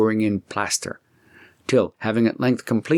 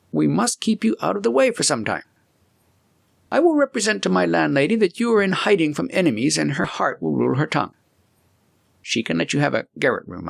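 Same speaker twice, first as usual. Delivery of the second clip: put-on higher voice for the young friend Heinrich, earnest; a helpful young man laying out a plan, pitched up; 6 semitones higher than usual. Heinrich voiced higher than narration.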